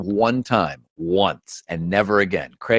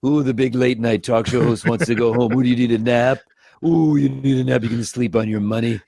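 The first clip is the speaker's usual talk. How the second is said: Jeff Peterson. Acted. Puppeteer busting the host's balls in character, mocking. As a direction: needle a big star with mock sympathy. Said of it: "fucking with him as Jeff".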